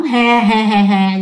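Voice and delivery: mock toothy "heh-heh-heh" cackle; imitated ghostly laugh. The ghost woman laughing at the husband, imitated laugh. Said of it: "nhe cái răng ra cười".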